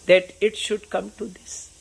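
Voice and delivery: slow, drawn-out reading of Shakespeare; slow recitation. Shown as a demonstration. Teacher reading Hamlet's soliloquy to students, slow solemn recitation. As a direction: recite each word slowly and solemnly.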